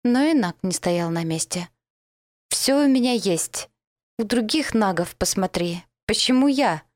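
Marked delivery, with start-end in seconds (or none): 2.5-6.8 alarmed protest. Acted. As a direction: push her off in a rising panic. Cornered Naga protests loudly.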